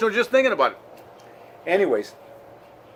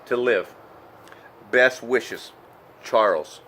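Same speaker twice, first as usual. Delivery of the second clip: choked-up reading; 4 semitones lower than usual. Real, not acted. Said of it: "I'm trying not to get emotional".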